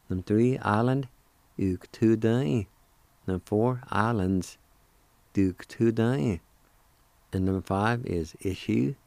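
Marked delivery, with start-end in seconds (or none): 1.6-2.7 Uktudai, spoken slowly as one word; slow whole-word demo. Shown as a demonstration. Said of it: "I'll pronounce the words one more time". 5.3-6.4 Duktudai, spoken slowly as one word; slow whole-word demo. Shown as a demonstration. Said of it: "I'll pronounce the words one more time".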